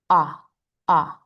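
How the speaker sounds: short, open "Ah", the O in octopus; big echoing O. Shown as a demonstration. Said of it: "this is a big echoing sound".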